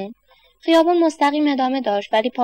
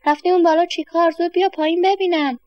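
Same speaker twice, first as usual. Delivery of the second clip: put-on man shouting at boy; 6 semitones higher than usual. A narrator's reading. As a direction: call him down sharply, raised voice. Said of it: "سرش داد زد".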